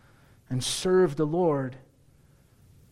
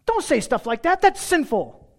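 prim wife; 11 semitones higher, 5 dB louder than usual. Pretend. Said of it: "Alyssa won't say to him".

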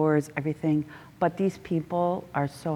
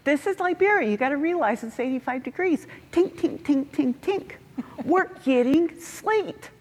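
much higher, fast, sing-song mockery of his cheerfulness; mocking JP; 10 semitones higher than usual. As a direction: parody a know-it-all friend with a high squeaky voice. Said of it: "A few minutes later".

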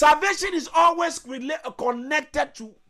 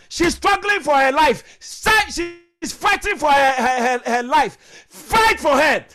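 louder, driving exhortation; full-force preaching; 4 dB louder than usual. Real, not acted. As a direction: hammer each call home to the congregation.

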